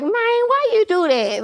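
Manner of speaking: slow, high Memphis "Man, why you do that?"; Memphis drawl. Shown as a demonstration. Guest demoing Memphis slang for the host, slow Memphis drawl. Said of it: "favorite Memphis slang".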